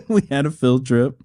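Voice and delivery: said through a real laugh; chuckling while repeating it. Real, not acted. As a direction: laugh out the line at the absurdity.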